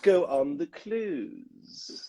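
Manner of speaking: slow, drawn-out dialect exercise; high, over-enunciated cartoon impression; Groundskeeper Willie. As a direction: recite it like a pupil of a dialect coach. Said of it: "when Willie in The Simpsons is".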